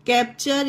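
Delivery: कैप्चर with T as "ch", "kap-cher"; ch sound for T. Shown as a demonstration. Teacher recapping the rule, कैप्चर with "ch". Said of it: "इसे चा पढ़ा गया".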